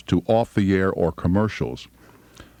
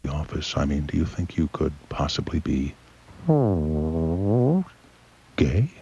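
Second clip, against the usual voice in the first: mock radio shrink; 3 semitones lower than usual. Voicing radio psychologist and caller.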